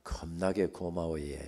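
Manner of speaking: slow Gyeongsang dialect thanks. Shown as a demonstration. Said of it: "또 경상도 말로는".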